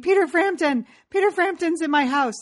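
high-pitched imitation of a screaming fan; mock excited scream. Imitating a fan screaming that a singer is in her house, mock scream. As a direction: mimic her star-struck squeal without a full scream. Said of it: "she just kept screaming".

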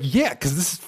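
exasperated outburst about how hard it is. Retold or imitated. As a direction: pitch jumps way up on "fucking tough". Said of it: "it's like".

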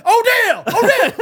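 high, loud worried calls; worried calling. Retold or imitated. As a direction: call out anxiously for a lost friend. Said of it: "they're like, kinda worried about it".

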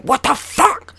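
high, loud outraged shriek; top-of-lungs yell. Retold or imitated. Driver reacts to the old lady, screaming in outrage. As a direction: yell it in disbelief. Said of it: "fucking top of my lungs".

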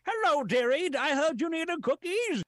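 high, sweet grandma voice; elderly singsong. Pretend. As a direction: coo it like a kindly granny. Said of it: "grandma comes over".

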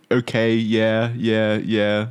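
slow, bored mock replies; unenthusiastic. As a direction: imitate someone replying with no interest. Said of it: "just unenthusiastic shit".

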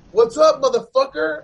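high, loud retold challenge; confrontational challenge. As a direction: throw it out to start a fight. Retold challenge after jumping into crowd.

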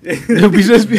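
laughing, high and drawn out; cracking up slowly. Real, not acted. Mock echo, laughing.

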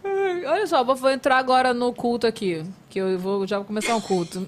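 talking through a yawn; words stretched by a yawn. Real, not acted. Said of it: "Primeiro boceja".

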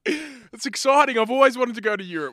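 high, loud, thrilled questions; overexcited. Pretend. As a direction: gush like an eager partner. Mock overexcited partner.

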